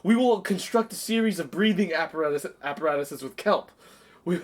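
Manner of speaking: lightly voiced comic threat; Will Ferrell quote. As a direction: explain the tuna attack with a straight face. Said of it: "He says".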